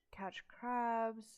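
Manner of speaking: sneaky little whispered joke; whispered aside. Acted. Joking aside while listing events.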